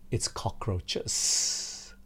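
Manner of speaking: preacher admitting his dread of cockroaches, hushed and disgusted. Real, not acted. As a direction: spit the word out with a shudder. Confessing dislike of cockroaches.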